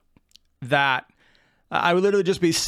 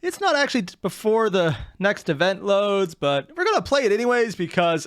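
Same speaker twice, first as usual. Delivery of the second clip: higher-pitched, casual impression of a wife; imitating wife; 3 semitones higher than usual. Husband quoting wife on time travel trick, higher voice. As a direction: pitch up to mimic a wife explaining. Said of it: "my wife is always like".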